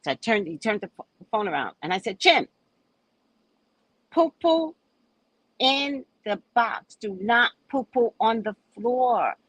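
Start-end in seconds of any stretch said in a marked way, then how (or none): 2.2-9.4 slow, higher, stern words to a cat; scolding the cat. Acted. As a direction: lay down the law to a cat, slowly and higher. Scolding the cat over phone.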